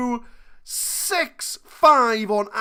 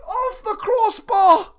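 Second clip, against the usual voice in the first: laughing disbelief; 10 semitones higher than usual. Real, not acted. Shot hits the bar.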